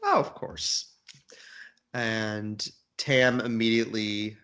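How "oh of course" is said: character voice. Acted. Mimicking a character's reply.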